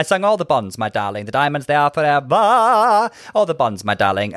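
suave grand diva, lightly voiced; a touch of an old film star; a classic big-voiced singer's voice. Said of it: "She was like".

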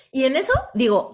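ordinary talk

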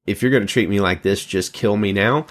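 put-on fast, tossed-off teen whine; mock teenager rushing a dramatic plea; teenage drama queen. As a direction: rattle it off like a sulky teenager. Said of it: "That sort of sounds like a teenager".

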